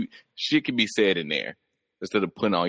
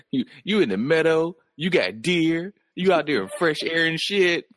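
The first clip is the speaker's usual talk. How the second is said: high, gushing fairy-tale voice; a lightly hammed-up admirer of a princess; mock dreamy fairy-tale praise; 8 semitones higher than usual. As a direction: paint her life like a storybook princess. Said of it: "and be like".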